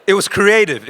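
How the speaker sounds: real laugh through the words. Real, not acted. Telling the audience about the sign, laughing.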